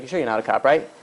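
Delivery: low, soft, suspicious check; wary junkie under his breath; paranoid street addict. Acted. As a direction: ask it furtively, as if watched. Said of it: "he looks around again, back and forth".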